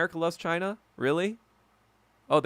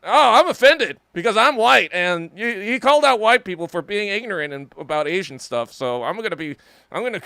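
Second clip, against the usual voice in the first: mocking white comrades; 5 semitones higher, 7 dB louder than usual. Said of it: "they're like".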